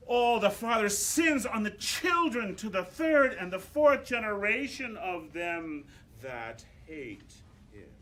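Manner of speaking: loud dramatic declaiming, then slowing on fourth; declaimed text. Shown as a demonstration. Conductor thunders text to choir, loud declaiming. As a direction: thunder it out like scripture. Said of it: "conductor speaks the text dramatically".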